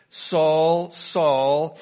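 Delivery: loud, ringing call of the name; heavenly call. Acted. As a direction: call him out from heaven, full voice. Jesus calls Saul from heaven.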